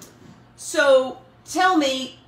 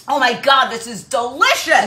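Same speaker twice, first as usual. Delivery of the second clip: savoring delicious food; 7 dB louder than usual. Real, not acted. First taste of creme brulee.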